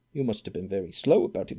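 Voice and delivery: brisk, matter-of-fact remark; Scrooge's brisk deferential observation; businesslike. Acted. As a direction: state it briskly but humbly. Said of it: "in a businesslike manner".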